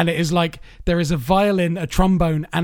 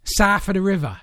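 London accent; 3 semitones higher than usual. Shown as a demonstration. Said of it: "do a bad Londoner accent".

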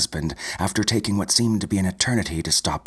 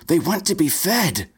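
high, louder entranced cry; louder, eerie; 11 semitones higher, 3 dB louder than usual. A narrator's reading. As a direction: call it out as if possessed. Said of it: "Then louder".

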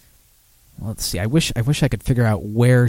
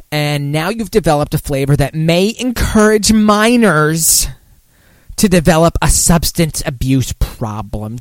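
Woody Allen voice; 4 semitones higher than usual. Retold or imitated. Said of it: "making her sound like Woody Allen".

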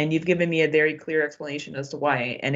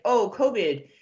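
higher, louder mocking voice of a vaccine skeptic; mimicking people who ask dumb questions about Canada, higher and louder; mock clueless skeptic; 7 semitones higher, 5 dB louder than usual. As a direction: ham up a dim know-it-all for laughs. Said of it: "or my favorite is".

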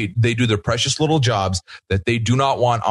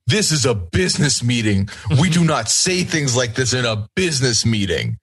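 mock outraged Libby. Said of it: "Libby was outraged".

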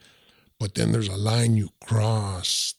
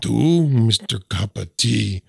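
mocking; 4 dB louder, slower than usual. Real, not acted. Chewy mocks host's saying.

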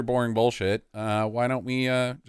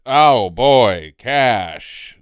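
louder, punched mock glee; imitated delight at money; 9 dB louder, much slower than usual. Host imitates actor's first real paycheck, playful delight. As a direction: play up someone relishing a first payday. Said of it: "he was like".

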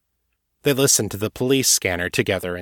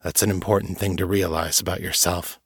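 grave. Acted. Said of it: "he said gravely".

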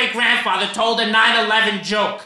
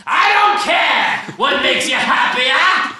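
back to shouting. Acted. Snaps back to yelling.

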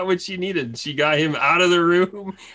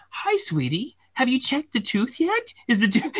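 mock sweet; 4 semitones higher than usual. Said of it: "all sweet and nice".

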